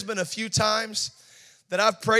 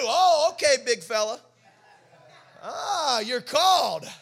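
mocking taunt; 4 semitones higher, 3 dB louder, slower than usual. Sarcastic taunting reply.

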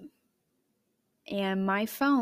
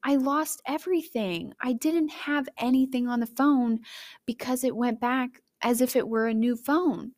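panicked; 4 semitones higher than usual. Retold or imitated. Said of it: "So then I was like".

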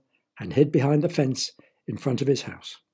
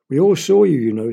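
louder, mock accusing; neighbour accusing; 7 dB louder than usual. Mister Smith tells Emma they saw her, mildly accusing. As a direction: catch her out. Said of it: "said Mister Smith".

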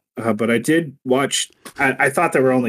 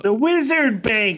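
mock awe; 10 semitones higher, slower than usual. Friend mocking wizard bank talk.

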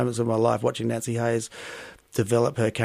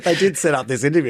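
laughing; 4 semitones higher, 5 dB louder than usual. Real, not acted. Laughing reply.

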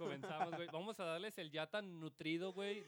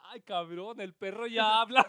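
loud comic amazement, building to the end; mock astonishment; 11 dB louder, slower than usual. Man discovering the dog talks, mock astonished. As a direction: exclaim it louder, as if truly amazed.

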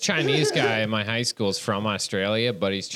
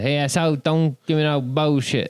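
attempted Cockney British accent. Shown as a demonstration. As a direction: have a muddled go at a British accent. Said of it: "then the British is".

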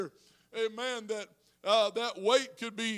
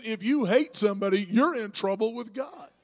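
raised, emphatic warning; louder repeat for emphasis; 9 dB louder than usual. Shown as a demonstration. Pastor repeating his warning to the congregation, loud. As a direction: say it again, much louder, so it lands. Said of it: "I'll say that again".

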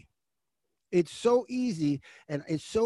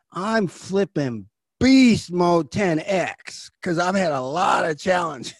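excited boast; 6 dB louder, slower than usual. Retold or imitated. Retold boast.

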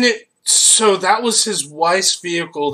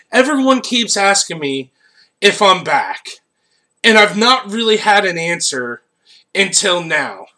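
Keanu Reeves. Retold or imitated. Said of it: "You do an amazing Keanu Reeves".

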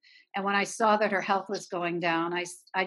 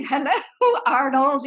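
higher, louder swooping hello broken by a laugh; flamboyant director; 5 semitones higher, 7 dB louder than usual. Retold or imitated. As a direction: imitate the director greeting Arnold, laughing through it. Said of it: "was so flamboyant".

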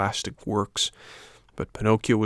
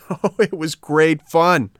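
high, loud, drawn-out gleeful taunt; little rascals; 8 semitones higher, 7 dB louder, slower than usual. Acted. Rascals boast of fooling the puppet, gleefully taunting. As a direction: crow it like a mischievous little rascal. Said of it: "answered the little rascals in chorus".

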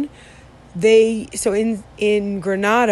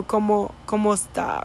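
clipped southern Spain Spanish, dropping sounds; southern Spanish accent. Retold or imitated. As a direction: imitate the Andalusian way of cutting words short. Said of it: "how they say gracia".

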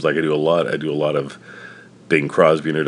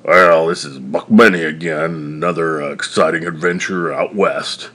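put-on loud, rough-edged old prospector; 7 dB louder than usual. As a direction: play a grizzled old prospector. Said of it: "like an old prospector sort of voice".

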